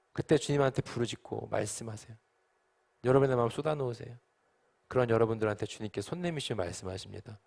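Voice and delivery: ordinary talk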